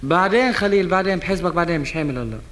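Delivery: impatient shouting. Acted.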